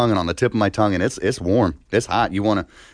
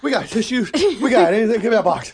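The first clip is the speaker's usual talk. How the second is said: strained high voice; 14 semitones higher than usual. Real, not acted. Eyes watering from spice.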